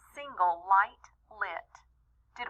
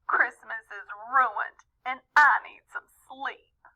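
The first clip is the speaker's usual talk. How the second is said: weepy; 4 semitones higher than usual. Acted. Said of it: "Mom started to weep".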